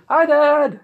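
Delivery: high, loud call. Acted. Son calls to his dad in the crowd, loud high shout. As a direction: holler a greeting across the stands.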